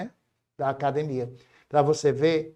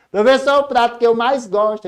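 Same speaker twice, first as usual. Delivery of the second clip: mock student; 6 semitones higher, 6 dB louder than usual. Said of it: "eu digo".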